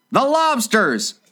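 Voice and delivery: high, drawn-out mock shout; character shout. A narrator's reading. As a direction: call it out high, without much volume. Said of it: "shouted the Griffin with a bound".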